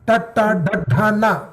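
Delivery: ta ta da da na with the tongue curled back; retroflex consonants demo. Shown as a demonstration. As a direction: curl the tongue up for ta ta da da na.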